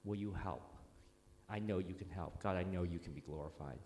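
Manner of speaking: soft, low, conversational prayer; gentle, understated model prayer; simple sample prayer. Shown as a demonstration. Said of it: "when you pray for them".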